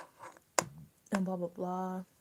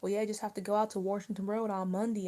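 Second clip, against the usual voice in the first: local Maryland accent; 3 dB louder than usual. Shown as a demonstration. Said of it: "and I just say".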